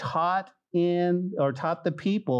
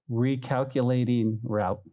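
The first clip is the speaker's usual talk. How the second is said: GPS voice; 6 semitones lower than usual. Acted. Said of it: "what does it say?".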